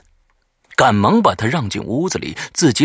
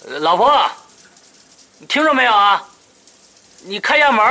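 higher, louder call through the house; raised call; 11 semitones higher, 6 dB louder than usual. Acted. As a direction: raise your voice and call again. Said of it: "提高嗓门又喊了一声".

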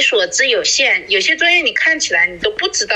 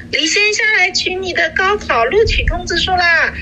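high, loud mock call up the stairwell; postman calling up loudly; 10 semitones higher than usual. Postman shouting up to her family with exaggerated pride, high loud call. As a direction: call it out so the whole building hears. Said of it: "他故意喊得很大声".

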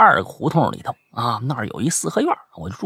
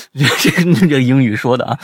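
ordinary talk

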